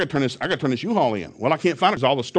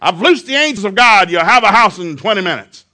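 bold declaration; 6 semitones higher, 9 dB louder than usual. Retold or imitated. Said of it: "finally she said".

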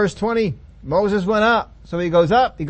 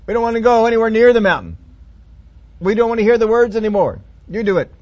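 louder, begging Moses; people pleading; 4 semitones higher, 5 dB louder than usual. Acted. Scared people begging Moses to speak for them, louder.

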